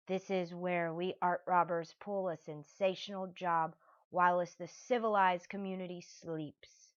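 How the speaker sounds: a grand, self-satisfied crook voice; pompous art thief. Acted. A thief boasting to his partner, pompous. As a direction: puff up like a showy robber.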